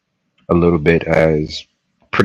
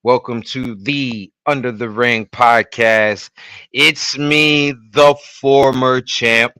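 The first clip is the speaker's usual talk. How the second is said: show announcer; 2 semitones higher than usual. Acted. Host opening the wrestling podcast to all ages, announcer style. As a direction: welcome the crowd like a wrestling emcee.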